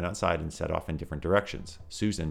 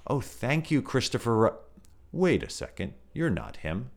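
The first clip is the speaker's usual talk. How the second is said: lightly higher teddy bear voice, friendly then puzzled; Pooh voice; 6 semitones higher than usual. Acted. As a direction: play a gentle teddy bear who catches his mistake.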